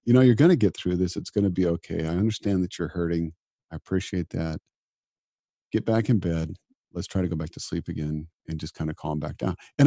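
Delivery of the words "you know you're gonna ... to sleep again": reassuring self-talk. Retold or imitated. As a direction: talk yourself gently back to sleep. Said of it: "I was able to go".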